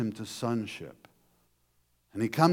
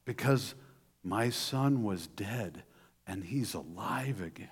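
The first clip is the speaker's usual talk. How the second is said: tender father; 3 semitones lower, 6 dB quieter than usual. Acted. Father's tender closing words.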